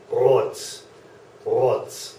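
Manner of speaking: "rot" with a German r gargled at the uvula; "rot" started with a throaty uvular r. Shown as a demonstration. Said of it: "Can you hear that?".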